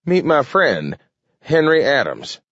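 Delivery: put-on winded old man introduction; breathless between puffs; out of breath. A narrator's reading. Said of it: "said between puffs".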